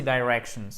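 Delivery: "directions" with a long I, dai-REC-tions; long I variant. Shown as a demonstration. Teacher offering the alternative "dai" pronunciation. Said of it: "Ou vous pouvez dire aussi".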